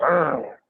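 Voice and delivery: playful growled roar like a lion; a hammed-up lion growl; light roar; mock lion roar. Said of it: "I sweet talk like that".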